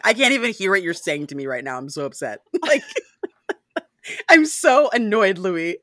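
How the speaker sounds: laughing through a fake sulk; mock annoyed Lestat. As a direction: sulk while giggling. Voicing jealous Lestat.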